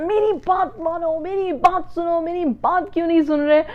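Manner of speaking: put-on high, pleading child's whine; whiny child tantrum. Child whining at parents during a tantrum, high pleading whine. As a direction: whine like a kid demanding their way. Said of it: "बड़े बच्चे भी करते हैं कि रोना पिटना डाल देते हैं".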